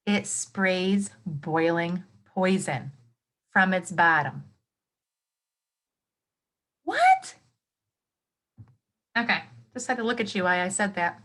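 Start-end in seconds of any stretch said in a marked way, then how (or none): 0.0-4.4 slowly again, leaning on each word; slowed-down emphatic retelling; slow, emphatic repeat. Shown as a demonstration. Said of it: "Did you hear that?". 6.8-7.4 high, loud disbelieving squeak; a stunned, rising what, much higher; pitched way up in mock disbelief; shocked what. Real, not acted. Shocked at beetle fact.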